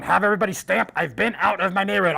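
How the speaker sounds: imitated convoy radio announcement; radio call. Lead car radioing the convoy of kids, radio call. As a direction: call it over the radio to the cars. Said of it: "radio and breaker one".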